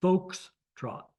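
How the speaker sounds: Foxtrot as FOKS, trot, in two parts; corrected pronunciation. Shown as a demonstration. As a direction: sound out "Foxtrot" with a rounded O first. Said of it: "not Fox".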